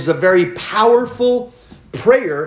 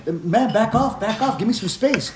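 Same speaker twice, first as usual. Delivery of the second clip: imitating buddy; 5 semitones higher than usual. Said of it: "he's like".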